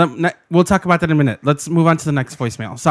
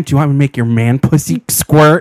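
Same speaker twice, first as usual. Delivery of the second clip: lightly put-on, lowered macho come-on; gay man acting straight; 3 semitones lower, 4 dB louder than usual. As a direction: mimic a man trying to sound straight. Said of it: "a gay man trying to act straight".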